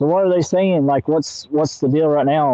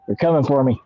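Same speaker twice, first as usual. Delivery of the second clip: laughing mock panic.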